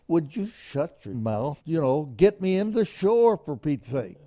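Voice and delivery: retold snap at a friend; irritated outburst. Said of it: "I just".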